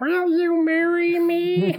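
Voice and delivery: very high, squeaky creature voice; gremlin monkey proposal. Retold or imitated. Monkey opens a ring box for Ben, squeaky pleading voice.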